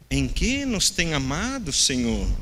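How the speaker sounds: dry ironic question, slowed, drooping at the end; sarcastic, ironic. Retold or imitated. Preacher voicing the people's ironic question to God, sarcastic. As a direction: ask it with a sarcastic edge. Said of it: "Meio sarcástico, irônico, assim".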